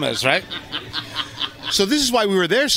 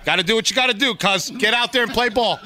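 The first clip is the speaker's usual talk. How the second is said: a coach's pep talk, higher pitch; imitating his wife; 5 semitones higher than usual. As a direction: play her like a boxing coach sending in the fighter. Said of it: "She's like".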